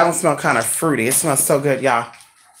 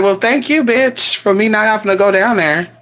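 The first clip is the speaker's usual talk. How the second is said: sassy retort; 5 semitones higher than usual. Retold or imitated. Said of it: "And I'm like".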